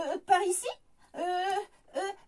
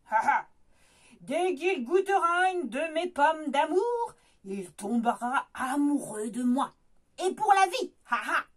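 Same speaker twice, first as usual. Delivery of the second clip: witch cackling; 2 semitones lower, 3 dB louder than usual. Acted. Witch gloats over the prince.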